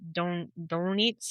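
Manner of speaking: slow, halting stab at a German pronunciation of "Donitz"; attempted German accent. Shown as a demonstration. Host retrying a German admiral's name, attempted German accent. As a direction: try "Donitz" slowly in an unconvincing German accent. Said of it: "I can't do a German accent".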